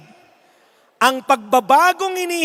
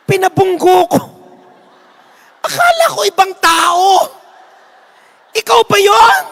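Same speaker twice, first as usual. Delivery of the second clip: loud, higher, laughing in disbelief; laughing shout; 5 semitones higher, 7 dB louder than usual. Acted. The Lord laughing loudly at the old woman. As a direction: crack up loudly at the mistake.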